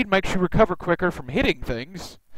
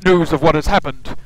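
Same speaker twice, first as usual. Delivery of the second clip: commanding leader, louder on the opening orders; urgent expedition leader; 4 dB louder than usual. Acted. Expedition leader orders the journeyman off the islands, stern and urgent.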